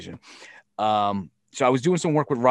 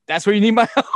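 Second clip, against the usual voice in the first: high, loud, laughing disbelief; incredulous laugh; 9 semitones higher, 8 dB louder, faster than usual. Retold or imitated. Retorting to Billy about needing help, laughing in disbelief. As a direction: laugh at his nerve.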